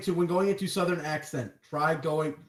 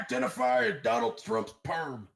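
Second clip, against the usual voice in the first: joke yell; 2 semitones lower than usual. Acted. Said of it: "at least when I yell".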